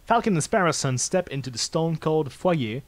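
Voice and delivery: measured narrator read of the scene; calm game narrator voice; story narration. A narrator's reading. Reads game narration aloud.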